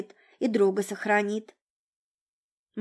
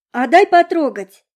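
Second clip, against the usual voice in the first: put-on high, sugary girlish plea; sweet little voice; 6 semitones higher, 12 dB louder than usual. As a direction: coax it out sweetly. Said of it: "попросила Монро таким милым голоском".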